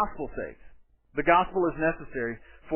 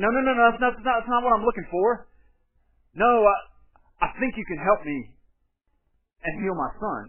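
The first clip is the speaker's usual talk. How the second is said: 1 mock protest; 5 semitones higher, 4 dB louder than usual. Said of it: "The guy doesn't say".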